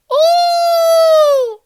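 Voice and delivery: very high, loud whooping scream; imitating a strange scream in the dark; imitated piercing scream. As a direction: let out a wild piercing whoop. Mystery scream heard outside hospital.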